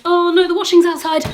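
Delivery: high and loud sudden alarm; alarmed realisation. Real, not acted. Vlogger spots rain on her washing, alarmed. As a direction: panic over the washing.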